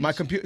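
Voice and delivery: "computer" with the T dropped, British style; imitated British "computer" without a T. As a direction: leave out the T in "computer". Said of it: "you guys don't pronounce the T".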